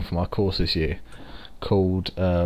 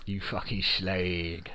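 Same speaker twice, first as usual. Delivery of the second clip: slow, softer London drawl; London accent; 5 dB quieter, much slower than usual. Shown as a demonstration. Londoner showing his friend the accent, slow cockney drawl. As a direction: stretch it out in broad London.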